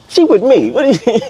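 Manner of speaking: high, sharp claim; retold protest. Man telling a stranger the woman is with him, sharp. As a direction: stake your claim fast. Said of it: "I'm like".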